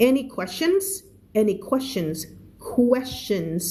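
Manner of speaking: "questions" said with a clear kw start; kw sound. Shown as a demonstration. Teacher drilling her student on the kw in "questions". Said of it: "เวลาเจอ Q กับ U ให้ออกเสียงเป็น K W".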